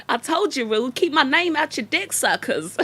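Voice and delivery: high, loud mock scolding; hammed-up, forceful impression; Deity. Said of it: "Okay, I can't do it".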